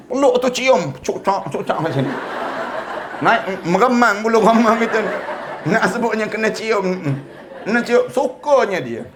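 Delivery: chuckling through the words; laughing. Real, not acted. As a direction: laugh as you tell it. Laughs recounting hugs and kisses. (sambil ketawa kecil)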